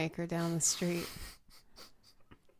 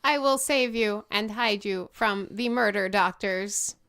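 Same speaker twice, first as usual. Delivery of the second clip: robot voice; 3 semitones higher, 6 dB louder than usual. Acted. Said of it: "The robot ... and said".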